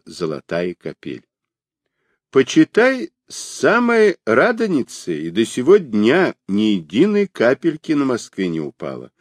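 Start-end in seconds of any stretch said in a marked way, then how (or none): 2.3-9.1 lightly voiced kindly grandmother; gentle old granny, a touch higher; sweet old lady. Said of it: "говорила царица голосом бабушки".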